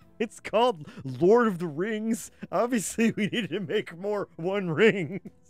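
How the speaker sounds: put-on, mocking obnoxious voice. Joking about the card set: put-on asshole producer voice. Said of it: "You just sounded like some kind of asshole producer".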